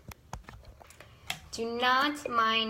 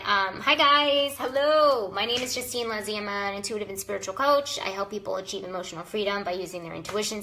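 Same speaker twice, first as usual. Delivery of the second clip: ordinary delivery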